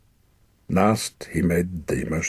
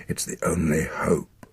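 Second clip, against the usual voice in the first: dying whisper. Acted.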